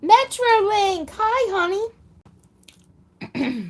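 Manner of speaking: high, loud, slow sing-song hello; excited greeting. Real, not acted. Host greeting viewer Metrolink in a high, slow sing-song. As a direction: call out to them like a happy welcome.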